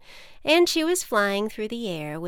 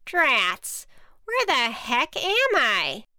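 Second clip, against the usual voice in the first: higher, slower witch voice, lost and cross; bewildered witch; 5 semitones higher, 5 dB louder, slower than usual. Acted. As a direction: grumble it out high, baffled by the cornfield.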